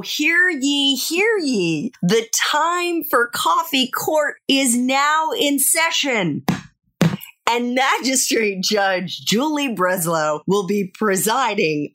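slow, high courtroom crier call; bailiff. Pretend. Mock court opening on podcast.

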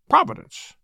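high, pious pronouncement; lofty declaration. A narrator's reading. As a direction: declare it grandly. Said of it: "declared Missus Ackroyd".

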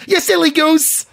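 co-host mimicking his friend's phrase; Jim Norton impression. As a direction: put on a high playful tease. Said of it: "I did the impersonation of him".

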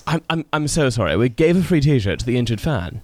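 apologetic British accent, a passable try; second go at a mock British accent; attempted British accent. Shown as a demonstration. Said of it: "my best British accent".

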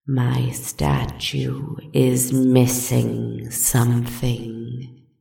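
slow, low menacing serpent. Acted. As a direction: savor each word slowly. The worm speaking again.

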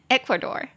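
"Ecuador" with the first syllable stressed. Shown as a demonstration. Teacher shows where "Ecuador" is stressed, first-syllable stress. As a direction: lean on the opening "E" of "Ecuador". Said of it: "中音节在最前面".

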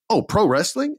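high mocking "oh"; mock sneering question. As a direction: mimic a dismissive Hollywood type. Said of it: "They'd be like".

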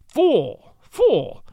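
high, raging cry of fool; furious outburst. A narrator's reading. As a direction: hurl the insult up high in fury. Furious last words to author.

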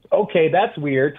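baffled reaction. Retold or imitated. Reaction to odd story.

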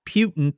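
Putin misspoken as "PYOO-tin"; tongue-tied slip. Real, not acted. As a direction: stumble on Putin with a y-glide after the P. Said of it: "I can't speak".

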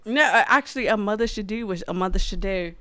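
lightly put-on English accent; a touch of English accent. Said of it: "I like your English accent".

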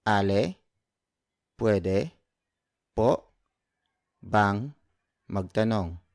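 "Ale, pwede po bang magtanong?" broken into single words with pauses. Shown as a demonstration. Teacher to learners, slow word-by-word drill. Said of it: "So word for word".

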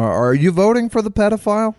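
high, loud, accusing question; emphatic loud call-out. Acted. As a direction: call it out to the listeners. Calling out to Alabama listeners.

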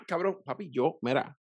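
usual speaking voice

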